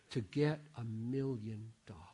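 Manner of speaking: softly whispered aside. Real, not acted. Preacher to his congregation, whispering the punchline. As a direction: lean in and whisper the irony.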